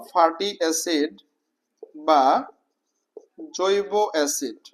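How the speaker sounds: measured dictation pace with long pauses; slow dictation. Shown as a demonstration. Teacher dictating a term for students to write, slow dictation. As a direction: dictate it slowly, piece by piece.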